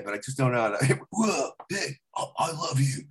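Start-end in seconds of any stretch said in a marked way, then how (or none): 1.1-3.0 Keanu impression. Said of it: "get Keanu Reeves in a different way".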